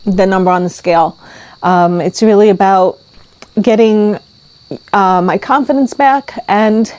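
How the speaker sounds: slow, halting words through real tears; tearful vlogger admitting why the ride mattered; teary. Real, not acted. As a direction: push through the lump in your throat. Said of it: "I just keep crying".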